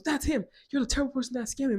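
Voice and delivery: high-pitched mock accusation; accusing lady. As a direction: act out a woman pointing the finger. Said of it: "This one lady goes".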